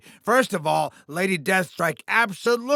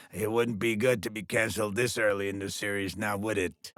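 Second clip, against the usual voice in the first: much lower, softer and faster aside; veiled threat; 10 semitones lower, 8 dB quieter, faster than usual. Acted. Boss warns his star about getting canceled, veiled threat. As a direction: drop low and quiet for a veiled warning.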